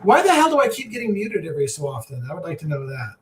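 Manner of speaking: distant mic, roomy and hollow; in a closet. Real, not acted. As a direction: voice picked up from across the room. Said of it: "You sound like you're in a closet".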